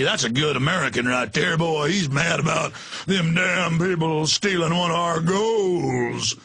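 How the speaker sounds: put-on slow, drawling good ol' boy who ends in a shout. Radio host imitating a patriotic sports fan who ends in a shout. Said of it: "it would be".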